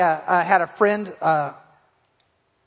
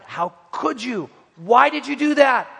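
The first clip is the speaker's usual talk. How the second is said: imitated scolding; 3 semitones higher, slower than usual. Scolding a little boy, retold.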